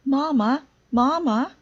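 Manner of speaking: high, loud, breathless calling; excited sputter. Acted. Sister running home to Mama with big news, breathless and excited. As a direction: blurt it out, barely able to talk. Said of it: "sputtered sister".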